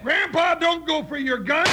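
urgent warning call. Acted. Warning Grandpa off his gun.

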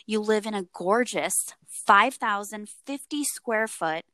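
measured true-crime storytelling; story narration. A narrator's reading. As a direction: set the scene for a chilling story.

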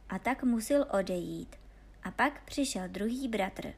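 ordinary delivery

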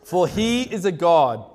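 mock Elijah teasingly in an Indian accent. Elijah taunting Baal's prophets in a laughing Indian accent. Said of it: "Sorry, my wife's Indian".

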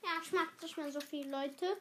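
talking while eating; eating, words round food; mouth full. Real, not acted. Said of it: "Deswegen esse ich leise mal".

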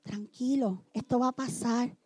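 consuelo hueco muy suave y bajo; pésame trillado. Shown as a demonstration. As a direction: imitar un pésame torpe casi murmurando. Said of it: "Nunca le digas a una esposa". (ejemplo de lo que no decir a un huérfano, muy suave)

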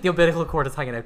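laughing through the words, quick and loud; cracking up while telling it. Real, not acted. Laughing loudly as she tells the birth story.

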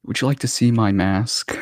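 lightly voiced creepy villain; a hint of a sinister, teasing whisper-tone; Scarecrow voice. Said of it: "do the Scarecrow voice".

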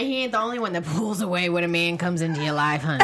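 playful low teasing jab, with a laugh. Real, not acted. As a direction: tease her with a chuckle. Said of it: "teasing cohost, laughing".

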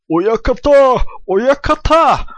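high, loud shout of Oyakata; loud call. Acted. Apprentice wrestler shouting for his stablemaster, loud high call. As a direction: call out eagerly for the boss.

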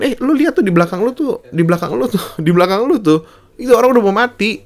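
high, urgent pleading shout; alarmed crowd. Retold or imitated. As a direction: urge the officer to look, panicked. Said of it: "Orangnya malah pada bilang di depan".

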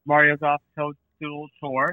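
said slowly and carefully; slow down, say each word. Shown as a demonstration. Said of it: "Try that one again".

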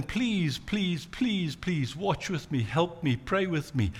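soft, begging plea to friends; Jesus softly begging his friends to watch and pray; pleading. Retold or imitated. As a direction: quietly beg them to stay with you. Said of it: "he pleads with all of them".

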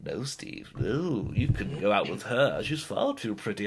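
a lightly put-on nagging parrot. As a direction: scold yourself like a bossy bird. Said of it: "parrot stood behind me going".

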